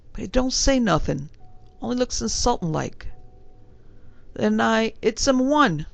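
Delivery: a hint of a respectful London bellboy; young servant answering his gentleman in a light Cockney. Thomas tells the fight.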